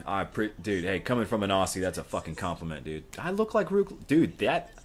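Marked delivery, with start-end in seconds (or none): 3.2-4.7 high squeal of flattered disbelief; astonished falsetto echo; incredulous delight. Real, not acted. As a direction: pitch it way up, amazed. Repeats the compliment in disbelief.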